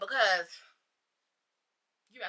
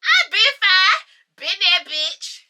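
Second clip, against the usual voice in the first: hyped brag; 8 semitones higher, 6 dB louder, slower than usual. Retold or imitated. Bragging excitedly.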